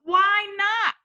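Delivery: high, loud cheering. A narrator's reading. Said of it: "cried ... with a super loud cheer".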